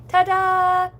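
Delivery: high, loud, sung-out ta-da; bright little showy flourish held out; playful ta-da. Pretend. Streamer showing off to chat, playful ta-da.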